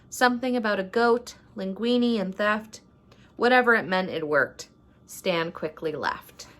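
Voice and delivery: measured, rhyming storybook narration; story read-aloud. A narrator's reading. Vlogger reads a rhyming Christmas story to viewers, storybook narration. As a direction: read it like a holiday picture book.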